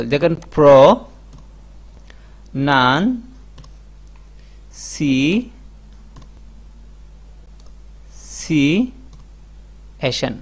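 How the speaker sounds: প্রো, নান, সি, এশন said one by one with long gaps; slow syllable drill of প্রো নান সি এশন; broken into syllables. Shown as a demonstration. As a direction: spell out প্রো নান সি এশন as separate beats. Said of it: "আপনাকে এভাবে ভেঙে ভেঙে করতে হবে".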